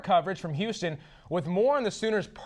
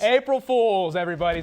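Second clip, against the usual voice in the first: gleeful prank reveal; 5 dB louder than usual. Real, not acted. Anchor reveals the April Fools prank to Sooner fans, gleefully. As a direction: call out the gotcha to everyone.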